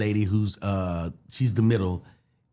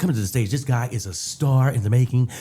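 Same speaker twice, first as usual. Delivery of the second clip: hype man; 4 semitones higher than usual. Retold or imitated. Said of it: "he introduced me so good".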